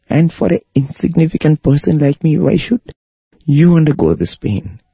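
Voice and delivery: a devotee's anguished high-pitched begging; tearful pleading. Retold or imitated. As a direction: plead with him, voice climbing. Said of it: "He began to cry loudly, and he was begging".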